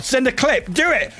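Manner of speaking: shouting. Real, not acted. Urging chat to send clip.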